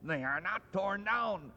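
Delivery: bursting with giddy delight; giddy joy. Acted. Scrooge to himself on Christmas morning, in giddy high joy.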